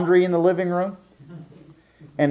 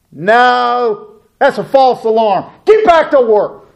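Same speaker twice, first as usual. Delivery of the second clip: higher, louder, laughing on Get back to work; laughing tease; 6 semitones higher, 5 dB louder, slower than usual. Retold or imitated. Dad laughingly sending kids back to work, higher and louder. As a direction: chuckle as you send them back. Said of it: "and I'd say".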